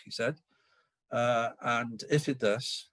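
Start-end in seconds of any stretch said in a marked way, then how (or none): 1.6-2.9 IF leaned on, phrase drawn out slowly; slow down to flag the word "if"; stress on IF. Retold or imitated. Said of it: "not the word if".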